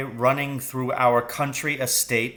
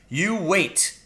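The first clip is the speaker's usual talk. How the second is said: mild cry; 6 semitones higher than usual. A narrator's reading. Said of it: "he cried".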